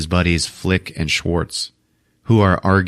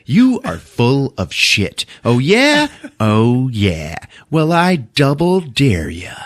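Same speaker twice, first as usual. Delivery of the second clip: mock arguing boys; 6 semitones higher, slower than usual. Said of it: "Schwartz and Flick are still arguing".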